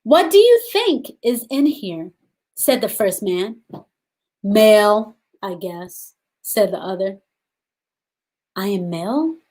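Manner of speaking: put-on gentle read-aloud for young children; storybook reading. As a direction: read the story to the class, unhurried. Teacher reads picture book aloud.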